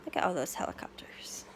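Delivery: soft unvoiced aside; hushed wondering whisper. Real, not acted.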